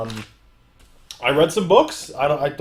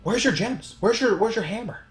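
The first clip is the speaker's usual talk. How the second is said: higher mocking question; other Loki taunting; 7 semitones higher than usual. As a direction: needle the weaker Loki. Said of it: "he looks at our Loki and he's like".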